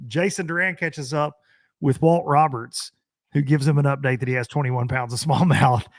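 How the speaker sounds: hushed golf commentator murmur. Retold or imitated. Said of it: "I'm doing the golf commentator whisper".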